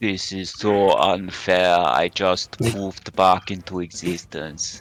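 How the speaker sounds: put-on character voice with an Austrian accent. Voicing a hurt player lying on the ground, in an Austrian accent. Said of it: "you like his uh, Austrian accent".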